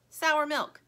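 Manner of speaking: high, loud retort; arguing toy. A narrator's reading. One toy repeats its claim in a quarrel, insistent. Bickering toys contradict each other.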